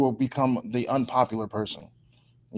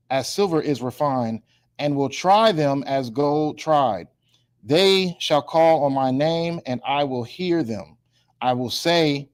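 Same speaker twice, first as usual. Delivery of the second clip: slow, measured Bible reading; scripture reading; slower than usual. Real, not acted. Preacher reads a verse to the class, slow measured reading. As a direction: read it out slowly, pausing between phrases.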